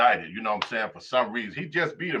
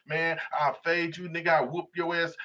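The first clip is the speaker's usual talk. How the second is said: mock tough talk; 3 semitones higher than usual. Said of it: "You be talking about".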